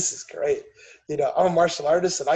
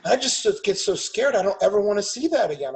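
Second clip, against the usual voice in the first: mock scared daughter; 4 semitones higher, 4 dB louder than usual. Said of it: "And she goes".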